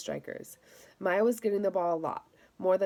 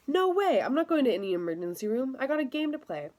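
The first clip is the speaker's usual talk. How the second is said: much higher and louder, indignant refusal; loud protest; 6 semitones higher, 3 dB louder than usual. Acted. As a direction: shout it down, a boy who won't leave the game. Victor refuses the emergency room.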